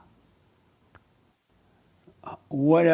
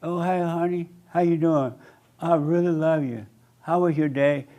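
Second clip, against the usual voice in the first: sweet wife voice; 3 semitones higher than usual. Retold or imitated. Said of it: "She asks you".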